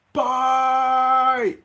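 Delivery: high, loud playful farewell; sing-song bye. Real, not acted. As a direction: toss out a cheeky goodbye. Waving off a viewer.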